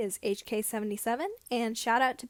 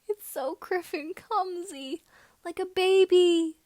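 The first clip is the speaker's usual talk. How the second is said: laughing; 6 semitones higher, 7 dB louder, slower than usual. A narrator's reading. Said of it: "Biggs laughed".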